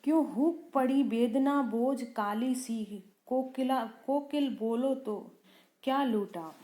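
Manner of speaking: slow, measured reading of verse; poem recitation. Shown as a demonstration. Teacher reciting the poem to the class, slow verse reading. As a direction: recite each line slowly and deliberately.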